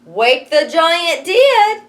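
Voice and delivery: ordinary delivery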